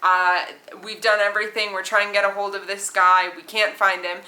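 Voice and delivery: captain pleading over the intercom; flustered captain. Retold or imitated. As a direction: play the captain apologising over the speaker, loud and flustered. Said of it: "he's like".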